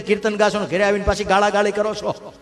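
rising scolding. Retold or imitated. Uncle scolds Jalaram for lying.

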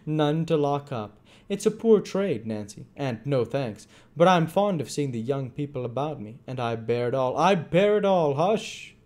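put-on sly self-pitying old man; whining Fagin voice. A narrator's reading. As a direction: whine about the poor trade.

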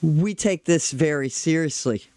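mildly stern, measured retort; real serious. Retold or imitated. Security woman answering the traveler's disbelief, mock real serious. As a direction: imitate an official being dead serious. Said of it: "she looked at me real serious".

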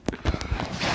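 breathy, voiceless laugh. Real, not acted. Streamer reacting to a rude chat message, breathy laugh. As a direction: laugh without voice.

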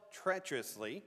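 "treacherously" set apart and stressed; emphasis on treacherously. Real, not acted. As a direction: let "treacherously" ring out firmly. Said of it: "I'm trying to emphasize that word".

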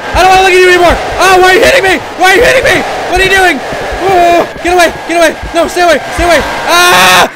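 high, very loud screams; panicked yelling. Real, not acted. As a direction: shriek at the attacker to keep off. Being attacked in horror game.

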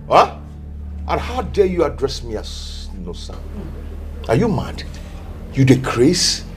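angry. Acted. Official berates princess.

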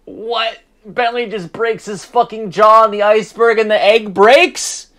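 real gamer rage; frustrated yelling. Real, not acted. Frustrated at game failure.

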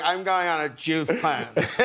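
imitated Californian accent; Californian little girl. Dad imitating his five-year-old daughter, Californian accent. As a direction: mimic a kid talking like a Californian. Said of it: "she's the most Californian".

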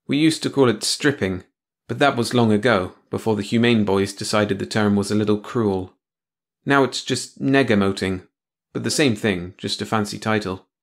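lightly voiced bitter man; dry, cynical explaining; Tony, bitter. Tony explains negamoting to her.

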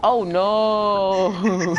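laughing "oh no". Real, not acted. Player reacting to his friend's burn, laughing. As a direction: let the words break into a laugh.

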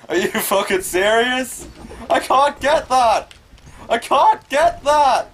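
high, loud, slow raging shouts; furious yelling. Real, not acted. Gamer screaming at the game after failing, furious. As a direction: scream your rage at the game.

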